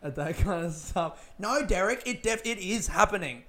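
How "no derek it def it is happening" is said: mildly raised, insistent mock mum; exasperated mum. Mum correcting dad's pessimism, exasperated and insistent. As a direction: insist he's wrong, a bit louder. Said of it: "Mum used to always flip her fucking shit".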